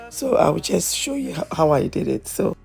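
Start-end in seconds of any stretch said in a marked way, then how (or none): none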